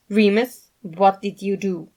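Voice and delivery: loud, sharp demand. A narrator's reading. Logan demanding answers from Remus, loud. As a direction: insist on an answer. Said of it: "Logan demanded".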